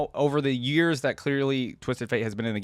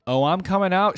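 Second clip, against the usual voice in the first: higher and louder, a cocky outlaw's shout; 7 semitones higher, 6 dB louder than usual. Acted. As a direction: yell it back through the door, fearless. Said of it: "shouted Graves".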